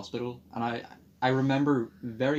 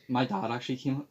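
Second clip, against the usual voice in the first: voice breaking. Real, not acted. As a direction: voice cracks mid-phrase. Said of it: "voice break, nice".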